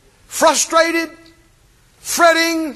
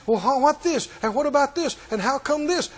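soft mock fretting; hushed worried mock questions; fretful questioner; 7 dB quieter than usual. Preacher mimicking anxious doubters, softly fretting. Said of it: "Asking dumb questions".

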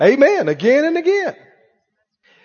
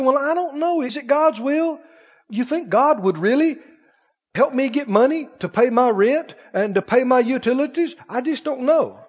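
mock doubting whine; 5 semitones higher than usual. Mocking a doubter's whining.

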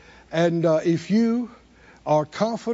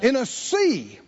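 raised, insistent preacher's delivery; emphatic preaching; 4 semitones higher than usual. Acted. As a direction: preach it with drive, pitched up. Preaches at high pitch.

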